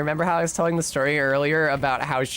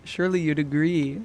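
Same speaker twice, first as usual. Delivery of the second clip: bimbo voice. Acted. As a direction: play it dumb and dreamy. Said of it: "the bimbo voice".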